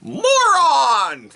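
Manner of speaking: high shouted moron; loud comic reveal. Acted. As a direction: announce it like a gag reveal.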